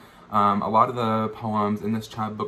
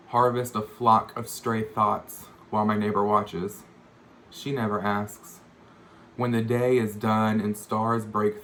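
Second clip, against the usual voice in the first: measured poem recital, phrase by phrase; poetry reading. Acted. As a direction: read it as verse, pausing between images. Reads own poem aloud.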